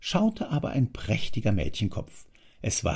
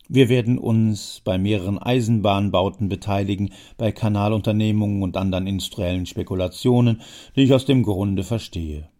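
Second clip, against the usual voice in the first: put-on a louder, pushy old man; old man pressing, louder; old Jammer, insistent; 5 dB louder than usual. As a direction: lean in and press your case as the old schemer. Jammer boasts of plans.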